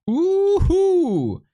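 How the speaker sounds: high whooping cheer; excited cheer. Real, not acted. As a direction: let out a big joyful woohoo. Cheer before matchup.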